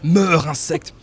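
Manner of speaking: lightly voiced boss taunting an insect; Ragnaros voice. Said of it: "à la Ragnaros".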